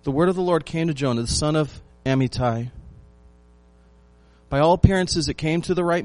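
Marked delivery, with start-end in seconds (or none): 0.0-2.7 measured reading of the Bible verse; scripture reading. Acted. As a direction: read the verse out with weight. Reads scripture opening.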